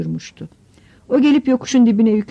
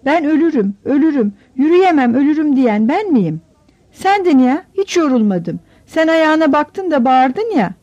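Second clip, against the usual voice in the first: put-on a higher, tearful child's voice, breaking into a cry; sniffling, crying girl; 6 semitones higher than usual. Little sister crying as she accuses her brother, tearful sniffling voice. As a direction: whine it out through sniffles like a hurt little girl. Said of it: "Sümüğünü çeke çeke ağladı".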